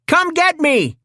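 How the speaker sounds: bait the robot into charging; taunting call. A narrator's reading. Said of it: "he called out".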